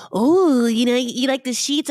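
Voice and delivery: hammed-up awkward small talk; husband trying to chat up the son, mock friendly. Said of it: "And then he's like".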